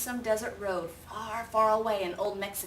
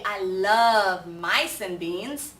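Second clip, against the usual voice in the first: very slow and louder; hero voice; 8 dB louder, much slower than usual. Acted. Kitten declaring his favourite food, slow. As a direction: savour each word. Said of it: "said Scapito".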